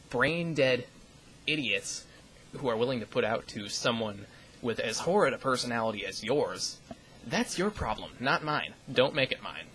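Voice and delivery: pointed, indignant, stressing each insult; irritated retort. Real, not acted. Vlogger hitting back at an anonymous hater, irritated retort. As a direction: throw the blame firmly back at them.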